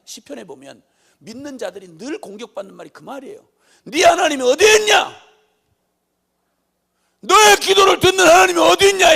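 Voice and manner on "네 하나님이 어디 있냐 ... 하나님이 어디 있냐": shouted taunt. Acted. Scoffers attacking believers over their prayers, shouted taunt. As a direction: bellow it as an accusing demand.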